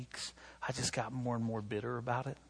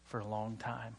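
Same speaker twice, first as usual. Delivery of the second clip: the Lord gently setting him straight; soft, calm divine rebuke; 6 dB quieter than usual. Retold or imitated. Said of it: "it was like the Lord saying".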